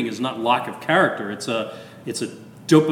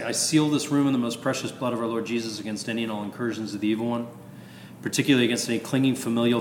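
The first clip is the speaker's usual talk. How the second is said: rushed prayer. Shown as a demonstration. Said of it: "I don't say it that fast".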